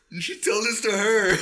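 high, loud, through laughter; real laughter. Real, not acted. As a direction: crack up while saying it. Still laughing at the joke.

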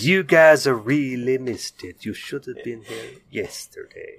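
slow, lightly put-on French accent; hint of a Clouseau French accent. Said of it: "every time you do a French accent".

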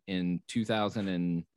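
talking through a yawn; words stretched by a yawn. Real, not acted. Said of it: "He's yawning".

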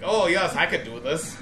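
mock Scottish-Irish imitation. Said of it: "and you were like".

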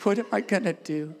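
hammed-up whine to God, with a laugh; fake-cry to God, half laughing; mock whining. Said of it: "we do it to God".

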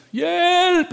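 high, loud call of help; cry for help. Retold or imitated. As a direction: shout it down the corridor. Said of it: "hörde man". (högt, starkt rop)

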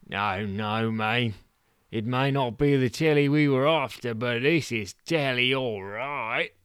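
lightly voiced showman; Stu's voice. Stu answers Bunce.

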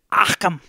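throaty little cough-like catchphrase; imitated cough noise. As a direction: imitate a character's burpy cough. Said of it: "he makes that little noise".

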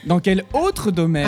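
"autre" drawn out slowly to mark it; stress on AUTRE. Shown as a demonstration. Co-host corrects the quiz question, stressing "autre". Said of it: "t'as oublié un mot".

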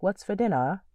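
lightly voiced kid asking for dinner; casual kid. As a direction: toss it off like a carefree child. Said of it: "be like".

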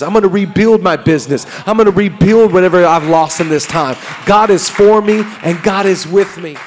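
fervent faith shout; declaring victory. Acted. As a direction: proclaim it over yourself. Stir up power to say.

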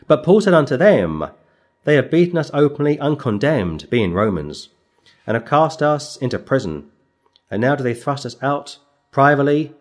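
measured, solemn reading of the verse; scripture reading. Acted. Preacher reading the Bible passage to his flock, measured and solemn. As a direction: read it out like holy writ to the congregation. Reads scripture aloud in sermon.

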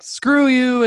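high-pitched indignant retort; retold anger. Buyer tells off the dealer, retold anger. Acts his angry retort.

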